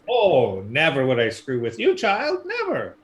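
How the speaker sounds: a hint of a creepy old ferrywoman; teasing old lady. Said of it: "creaky old lady".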